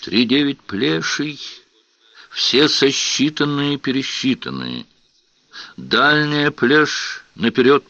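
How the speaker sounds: high shrill falsetto chant. Acted. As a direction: shriek it in falsetto. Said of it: "вдруг заверещал фальцетом".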